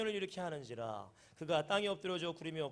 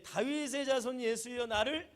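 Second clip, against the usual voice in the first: shouting. Acted. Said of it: "막 소리 지릅니다".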